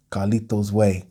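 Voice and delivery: "Carlito's" said with relish on the name; showy pronunciation. Real, not acted. Listing gangster films for viewers, showy pronunciation of "Carlito's". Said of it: "You like the way I said Carlito".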